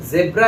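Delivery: ज़ेब्रा with 'zeb' at the start; British pronunciation. Shown as a demonstration. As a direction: use an 'e' vowel in ज़ेब्रा. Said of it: "British लोग भी इसे". (ज़ेब्रा में 'ज़े')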